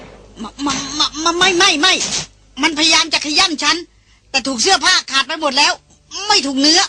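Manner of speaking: high, halting stammer of a shaken woman; stammering fear. Acted. Frightened woman telling her rescuer she was not bitten, stammering. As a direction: force the words out through fright.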